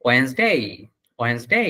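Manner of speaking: "ওয়েডনেসডে" as wens-dei with a rising last glide; correct pronunciation. Shown as a demonstration. Teacher sums up the parts, correct pronunciation "ওয়েডনেসডে" as wens-dei. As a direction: say "ওয়েডনেসডে" in two syllables, wens-day, tipping upward. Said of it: "তাহলে হবে কি".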